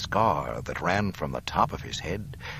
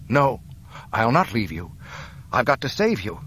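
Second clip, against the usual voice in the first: loud, urgent refusal; desperate pleading; 5 semitones higher, 4 dB louder than usual. Acted. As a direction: cry out to save him. Luke refuses to leave father.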